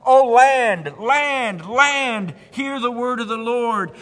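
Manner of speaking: high, forceful proclamation; crying out. Acted. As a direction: cry out a warning to the whole people. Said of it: "Jeremiah is crying out for the people".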